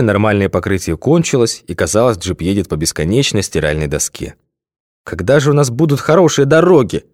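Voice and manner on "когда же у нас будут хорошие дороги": suffering. A narrator's reading. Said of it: "страдальчески спросил Лёша".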